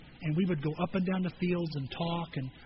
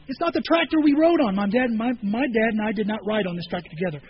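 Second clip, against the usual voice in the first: emphatic; 2 semitones higher, 6 dB louder than usual. Real, not acted. Pastor to congregation, insisting about his dad, loud. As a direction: press every word about dad.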